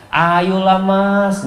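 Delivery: drawn out slowly, sweet and pleading; seductive coaxing wife. Shown as a demonstration. Preacher mimics a wife sweet-talking a seller, slow coaxing. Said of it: "tidak dengan melemah lembutkan suaranya".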